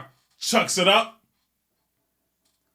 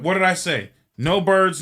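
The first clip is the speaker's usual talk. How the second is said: raised, louder telling-off; mock scolding; 4 semitones higher, 4 dB louder than usual. Pilot catching the woman with a bird, scolding. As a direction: lay down the law in a mildly acted temper.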